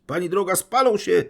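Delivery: very high, loud lament; wailing. Acted. Liebedziew wailing to the lady over the money, loud lament. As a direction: wail it as if heartbroken. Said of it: "biadał Liebedziew".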